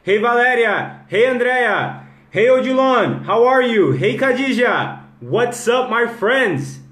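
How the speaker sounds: high, loud, stretched hellos; hearty greeting. Real, not acted. Host hails viewers joining the live, hearty greeting. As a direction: call out joyfully to each newcomer.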